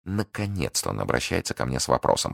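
soft inner aside with contained joy; secretly gleeful thought. Acted. Schemer thinking her guard has taken the bait, softly gleeful. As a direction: think it softly to yourself, quietly pleased. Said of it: "подумала миледи с радостью".

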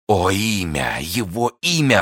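impassioned, rising exclamation; urgent cry. A narrator's reading. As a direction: pitch leaping up on a desperate demand. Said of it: "вскричал Фельтон".

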